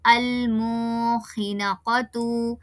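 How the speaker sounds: अलमुखिनकतु slow with नून distinct; clear noon. Shown as a demonstration. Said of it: "नून को फिर से जाहिर करना है". (नून ज़ाहिर करके)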